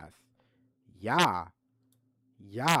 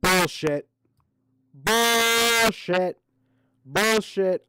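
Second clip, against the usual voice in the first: yelled bullshit; 5 semitones higher, 6 dB louder, much slower than usual. Real, not acted. Angrily rejecting his excuse.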